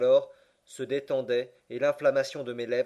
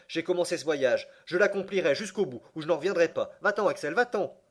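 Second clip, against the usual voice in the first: surexcité; 4 semitones higher, 3 dB louder than usual. Acted. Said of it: "parlait avec une extrême surexcitation".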